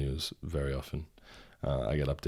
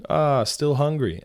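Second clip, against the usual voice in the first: slow, high, smug teasing question; smug cashier; 9 semitones higher, 5 dB louder, slower than usual. Retold or imitated. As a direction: tease like a know-it-all clerk. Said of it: "the guy says to me".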